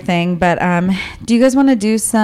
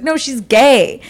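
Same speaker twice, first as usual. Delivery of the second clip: slow, higher-pitched imitation of certainty; emphatic verdict; 4 semitones higher, slower than usual. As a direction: draw it out as a confident mock verdict. Acting mom's emphatic guess.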